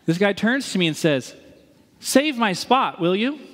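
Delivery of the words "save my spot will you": a slow, higher mock voice of the guy in line; imitating the stranger. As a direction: stretch out save like a casual favour ask. Stranger asks a favour, retold.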